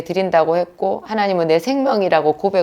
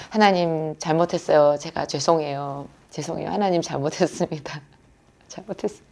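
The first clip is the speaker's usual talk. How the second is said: hushed, fearful begging for forgiveness; retold trembling, near-whispered repentance; terrified apology; 5 dB quieter than usual. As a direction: apologise very softly, fading to almost nothing. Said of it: "너무너무 두려워가지고".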